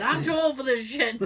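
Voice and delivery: laughing through the movie line; Lethal Weapon quote, laughing. Retold or imitated. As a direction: quote it while cracking up. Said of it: "like Lethal Weapon".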